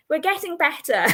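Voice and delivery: "We're getting better" said through a real laugh. Real, not acted. Host laughs at her own tarot deck, laughing. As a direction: giggle through the words.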